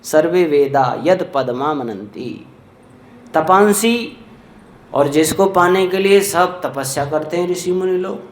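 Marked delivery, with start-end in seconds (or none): 0.0-4.2 re-reading सर्वे वेदा slowly for the listeners; slow the verse down to explain it; slow recitation. Shown as a demonstration. Preacher repeating the verse to explain it, slow recitation. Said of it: "सभी वेद जिस पद की व्याख्या करते हैं".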